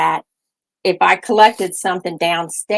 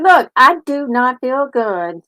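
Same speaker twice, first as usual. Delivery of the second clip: slow, grumpy and a little higher; grouchy; 5 semitones higher, slower than usual. Retold or imitated. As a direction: tell them off slowly, fed up. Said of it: "I was probably s-, grouchy with him".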